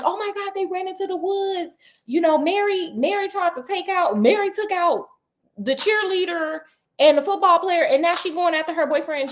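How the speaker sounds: gasping out what happened to the cop; retold hysterics. Frightened girl blurting to the police officer, high and hurried. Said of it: "my girl is in hysterics".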